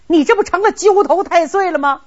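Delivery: an exasperated emperor scolds him, stressing 这; angry retort. Acted. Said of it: "李世民气的". (生气地质问，重读“这”)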